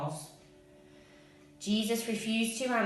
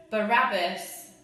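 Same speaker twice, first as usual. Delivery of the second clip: slow, loud shout of Barabbas; crowd shout; 2 semitones higher, 7 dB louder than usual. Acted. Crowd shouting back at Pilate, loud and slow. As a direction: yell the name back at him. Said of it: "the shouts came back".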